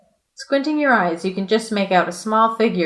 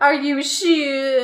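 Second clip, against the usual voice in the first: slow doubtful owl; 6 semitones higher, much slower than usual. Acted.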